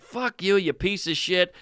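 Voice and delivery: understated re-enacted rage; retold angry outburst. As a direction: retell losing it, held back in volume. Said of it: "I just lost it on this guy".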